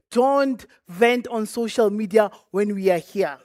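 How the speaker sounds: "Don't vent" said slowly and deliberately, each word set apart; overemphasized warning. Real, not acted. Speaker warns business owners against venting online, overemphasized. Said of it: "I want to overemphasize that".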